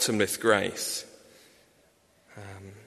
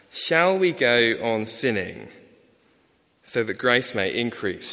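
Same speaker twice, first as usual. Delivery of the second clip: slow scripture reading; slower than usual. Shown as a demonstration. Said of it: "where Paul writes this".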